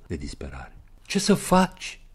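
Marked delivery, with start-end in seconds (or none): 1.1-2.0 loud, much higher cry. Acted. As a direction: burst out at him. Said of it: "Strigă ea". (strigăt tare, mult mai sus)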